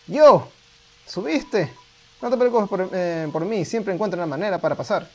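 a lightly voiced eager kid, upbeat; bouncy, eager kid; excited kid voice. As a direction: read it like a cheerful little monster. Reading the excited kid's dialogue.

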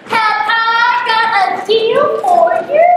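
high, slow, sing-song huckster offer; salesman pitch. Acted. Yo offers the grandmother a deal, showman's sing-song pitch. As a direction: sell it like a market hawker.

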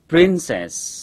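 "princess" with the final s held for a long hiss; three-second final s. Shown as a demonstration. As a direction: stretch the last s of "princess" right out. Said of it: "Nhớ là kéo dài âm cuối trong vòng ba giây".

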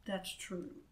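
soft, quiet resigned sigh. A narrator's reading. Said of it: "the king sighed".

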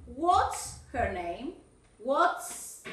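"What's" with a clearly sounded final s; slow teacherly "What's", ending on a crisp ts. Shown as a demonstration. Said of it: "ahí va la S".

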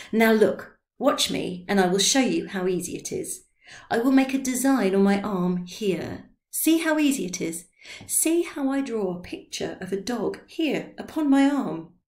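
a hint of tipsy teacher; eager demonstrator. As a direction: show how easy it is. Drioli demonstrating tattoo.

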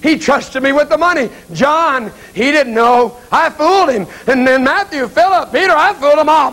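worked up, voice lifted; agitated confession. Acted. Judas recounts his betrayal.

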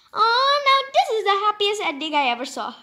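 quick, high delighted voice; happy mouse. Acted. Mice thanking George, quick and delighted. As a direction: rush it out with joy.

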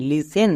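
লিসেন as "lisen", t silent; correct pronunciation. Shown as a demonstration. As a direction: model লিসেন for the class, no t. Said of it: "তাহলে এই ওয়ার্ডের উচ্চারণ কী দাঁড়ালো?". (সঠিক উচ্চারণ লিসেন, টি ছাড়া)

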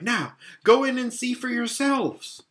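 high, eager challenge; Lucy excitedly showing the wardrobe; excited cry. A narrator's reading. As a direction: throw the door open and dare them. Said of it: "and cried".

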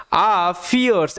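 "ফিয়ার্স" slow, with a drawn-out first vowel; pronunciation demo. Shown as a demonstration. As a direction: model "ফিয়ার্স" slowly as fee-ers. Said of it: "এটার উচ্চারণটা ভালো মতো মাথায় রাখবে".

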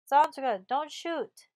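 a touch of breathless alarm as you beg; breathless plea. A narrator's reading. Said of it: "a husky voice replied breathlessly".

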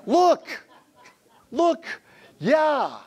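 high, squealing mock parent with a laugh; a pastor imitating parents showing off their baby; proud parent gushing. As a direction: coo over the baby like a doting parent. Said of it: "People feel obligated to bring to pastors their babies".

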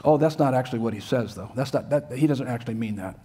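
mock reinterpreter. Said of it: "I've heard that kind of nonsense".

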